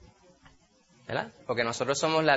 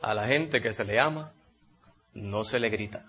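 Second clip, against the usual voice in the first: radio slogan; 6 semitones lower than usual. Retold or imitated. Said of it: "decía".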